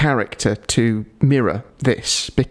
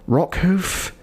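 Rockhoof? pitched up high with a rising, disbelieving lift; incredulous question; 7 semitones higher than usual. Real, not acted. Podcast host baffled that the show brought him back, incredulous rise. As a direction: ask it like you can't believe the choice. Baffled at the writers' character choice.

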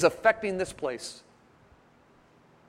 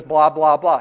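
mocking blah blah; 7 dB louder, slower than usual. Mocking talk of seeking.

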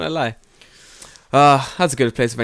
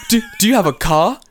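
higher, louder probing voice; mock official question; 8 semitones higher, 7 dB louder than usual. NHK man quizzing about a car, higher mock voice. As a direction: ask it like a nosy official. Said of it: "And he's like".

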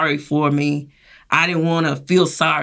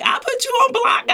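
laughing. Retold or imitated. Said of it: "And I'm laughing because".

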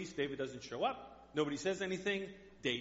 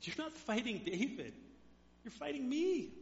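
voice of God; 7 semitones higher than usual. Retold or imitated. God speaking to Saul.

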